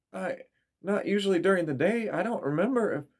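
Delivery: high, rising panic in halting words; frightened stammer. A narrator's reading. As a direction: stumble over it in fear. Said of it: "The fear was in her eyes".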